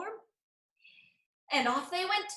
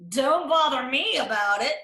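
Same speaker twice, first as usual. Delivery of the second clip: annoyed brush-off; 3 semitones lower, 9 dB louder than usual. Acted. Rooster brushes off hen.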